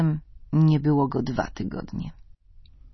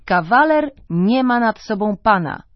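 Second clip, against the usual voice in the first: louder, higher teasing jeer; teasing bachelor friends; 6 semitones higher, 7 dB louder than usual. Retold or imitated. Unmarried friends teasing the husband, loud jeering. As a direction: rib him like a mocking buddy. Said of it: "droczyli się z nim jego nieżonaci koledzy".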